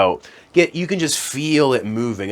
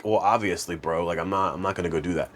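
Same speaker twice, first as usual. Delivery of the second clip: mock viewer reply; 3 semitones lower, 5 dB quieter than usual. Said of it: "some of you at home are like".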